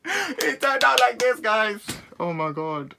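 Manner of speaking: high, loud, slow comic wail; high wailing to the viewers; high mock wail. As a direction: drag it out in mock despair. Showing bad haircut.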